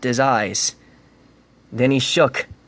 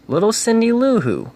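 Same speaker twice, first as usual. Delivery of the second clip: put-on tiny child name; 10 semitones higher than usual. A narrator's reading. Narrator voices tiny child.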